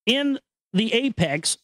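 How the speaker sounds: normal talking voice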